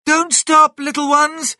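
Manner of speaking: very high, loud motherly shout; urgent mother fox calling out; shouted urging. Acted. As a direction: yell encouragement to the children. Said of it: "shouted Missus Fox".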